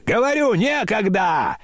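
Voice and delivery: very high, impatient outcry; crying out. A narrator's reading. Grandmother refusing to be delayed, high impatient shout. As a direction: insist sharply, pitch leaping up. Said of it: "закричала бабушка".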